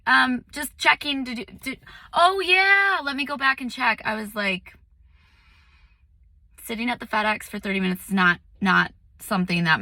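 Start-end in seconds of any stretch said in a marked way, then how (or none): 0.0-4.0 lightly high, chirpy fake-polite customer voice; mock sweet clerk voice. Retelling FedEx clerk chat, lightly mimicking the clerk. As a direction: play both sides, a touch sugary. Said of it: "And I'm like".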